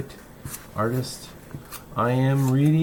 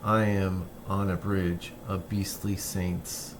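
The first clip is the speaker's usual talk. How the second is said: measured poetry reading, phrase by phrase with pauses; poem reading; 4 dB quieter than usual. Acted. Poet reads "Boyhood of a Dog" to listeners, measured recital. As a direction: read it as verse, unhurried, pausing at line breaks.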